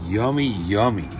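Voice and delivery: chewing while talking; mouth full of hot food. Real, not acted. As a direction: talk through a mouthful. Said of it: "Look at that shit".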